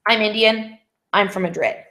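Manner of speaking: "I'm Indian" and "I'm from Madrid" as separate sentences, pause between; two separate statements. Shown as a demonstration. Teacher showing students what not just to say, two separate statements. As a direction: break it after "Indian", no link into "I'm from Madrid". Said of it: "you're not just saying".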